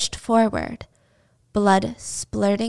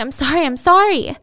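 tearful apology; 6 semitones higher, 5 dB louder than usual. Retold or imitated. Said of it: "Jill's crying".

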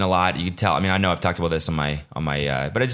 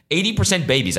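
laughing; 10 semitones higher than usual. Real, not acted. Laughing repeat of his claim.

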